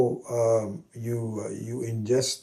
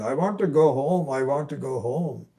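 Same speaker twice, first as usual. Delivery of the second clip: delirious cry; 4 semitones higher, 4 dB louder than usual. Retold or imitated.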